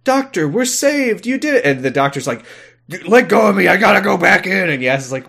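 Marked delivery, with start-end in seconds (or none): 0.0-1.6 mock relieved companion; relieved Yaz. 3.1-4.7 higher, louder urgent protest; mock frantic Doctor.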